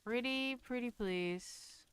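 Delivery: slow, coaxing plea; sweetly insistent. Pretend. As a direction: draw it out sweetly to coax. Begging the game for a door.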